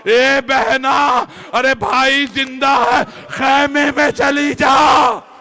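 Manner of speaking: dying brother's reply. Acted. Husain answers his sister.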